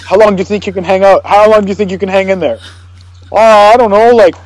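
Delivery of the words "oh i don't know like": light higher unsure voice; a hint of a clueless prisoner; mock quote. Prisoner answering his lawyer, lightly voiced unsure.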